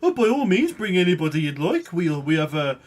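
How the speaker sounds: gnome shopkeeper in put-on Birmingham accent; rough stab at Birmingham or Yorkshire accent; unsure Birmingham accent. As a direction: play an obliging salesman with a Birmingham accent. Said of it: "I don't know what accent this is".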